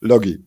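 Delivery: Logie echoed with a hard g; correct name pronunciation. Shown as a demonstration. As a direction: repeat Logie as LOH-ghee, falling at the end. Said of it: "I pronounce it the right way".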